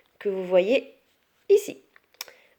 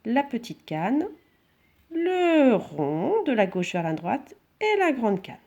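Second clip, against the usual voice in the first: slow dictation; 3 semitones higher, slower than usual. Shown as a demonstration. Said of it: "Je le refais une fois".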